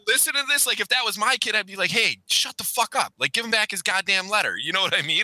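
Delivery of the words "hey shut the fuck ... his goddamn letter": put-on exasperated parent snapping at nosy kids; pretend scolding parent. Imagined scolding of the daughters.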